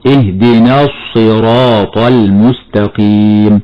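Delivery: slow, lips rounded on the ص of الصراط; showing the rounded-lip mistake; rounded sad error. Shown as a demonstration. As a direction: overdo the ص in الصراط with pursed lips. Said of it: "هكذا خطأ مرة أخرى".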